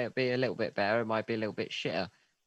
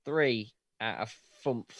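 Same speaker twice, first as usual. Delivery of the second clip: attempted Irish accent; 3 semitones lower than usual. Shown as a demonstration. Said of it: "was just trying to do an accent".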